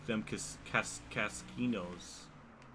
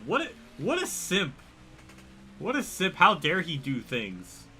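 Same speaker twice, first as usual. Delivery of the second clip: hammed-up scorn, higher and louder; mock outrage; 5 semitones higher, 4 dB louder than usual. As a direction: tease him with fake indignation. Mock outrage at friend's chores.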